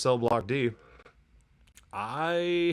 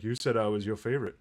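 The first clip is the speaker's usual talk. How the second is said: put-on Indian accent; faster than usual. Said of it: "I don't know why that sounded Indian".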